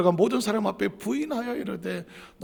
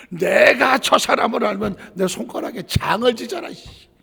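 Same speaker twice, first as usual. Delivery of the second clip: cursing denial; 2 semitones higher, 9 dB louder than usual. Retold or imitated. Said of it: "온갖 소리를 치면서".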